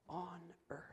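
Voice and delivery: very soft, breath-only ending; hushed. Real, not acted. Preacher describing the room over there, hushed. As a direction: fall away into a near-whisper. Grim hushed end of contrast.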